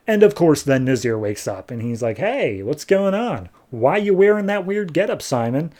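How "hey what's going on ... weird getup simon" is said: just woken, puzzled by the getup; groggy wake-up. Retold or imitated. Nazir waking from coma.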